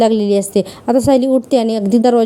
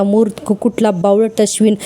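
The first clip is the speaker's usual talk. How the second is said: mock self-insult. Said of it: "असं ना स्वतःलाच म्हणून घेतो".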